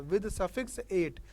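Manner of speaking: suffix eight drawn out very slowly; slow, deliberate teacher dictation. Shown as a demonstration. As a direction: spell it out for the class word by word. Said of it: "suffix मतलब जो बाद में लिखा जाता है".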